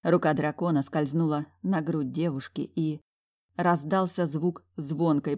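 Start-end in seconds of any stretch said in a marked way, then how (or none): none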